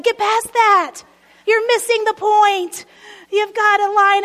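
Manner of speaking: slap the objection away; emphatic rebuke. Acted. Preacher rebuts objection.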